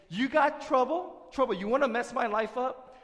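loud, high-pitched taunt at trouble; defiant challenge. Acted. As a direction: square up to trouble and call it out loudly. Preacher confronts his troubles aloud.

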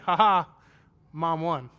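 loud mocking laugh then gloat; gloating kid. Boy gloating to his dad that mom won, mocking.

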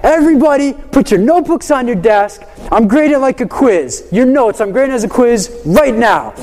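retold teacher's stern announcement. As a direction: lay down the law to the class, without real anger. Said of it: "I'm raising my voice".

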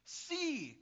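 high, loud regal call; theatrical ringing cry. Acted. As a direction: hail the waves like a monarch. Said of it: "cried Canute".

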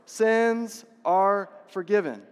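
very slow, every word spaced for the crowd to join; slow unison declaration. Shown as a demonstration. Pastor leading the congregation to say it with him, slow and deliberate. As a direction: lead the room through it word by word. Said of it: "Everybody say it with me".

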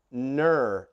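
lightly attempted German accent; a clumsy stab at a German accent; horrible German accent. Shown as a demonstration. Preacher teaching the German word for only, in a rough German accent. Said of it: "that was my horrible German accent".

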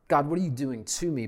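quick, exasperated plea to God; fast frustrated complaint; complaining prayer. Shown as a demonstration.

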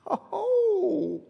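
long, high-pitched "oooh"; mock shocked reaction. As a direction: react to a cutting jab with a drawn-out high oh. Mock reaction to rulers' jab.

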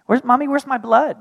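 put-on little child. Son asking mommy about his blood, small child voice. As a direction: ask it like a puzzled three-year-old.

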